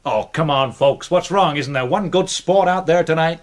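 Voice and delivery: hammed-up plea for a volunteer; coaxing showman. Magician coaxing the audience for a volunteer, lightly performed. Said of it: "The incredible Gingrich".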